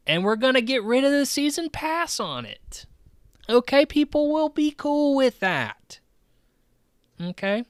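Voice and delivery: high, strained mock-executive voice, insistent; high-pitched placating. Mock CEO placating investors about delayed game, high-pitched. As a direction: pitch way up, pushing the reassurance hard.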